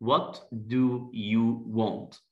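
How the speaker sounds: very slow, each word apart; slow question drill. Shown as a demonstration. Teacher slowly asking a shy guest. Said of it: "عايز أسأله".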